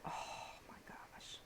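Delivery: breathless "my gosh" with no voice; awe-struck at the sparkle; soft amazed whisper. Real, not acted. Awed by sparkle swatch.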